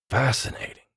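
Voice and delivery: softly murmured in awe; hushed whisper. A narrator's reading. Newcomer hearing of another dimension, whispered. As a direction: let it out under your voice. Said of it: "Elliot whispered".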